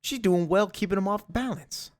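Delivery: high, goofy proud-parent voice; Peter. Retold or imitated. Dad admiring daughter from the sidelines, high playful imitation. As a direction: gush in a high mock voice. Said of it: "Peter can't help but sit there".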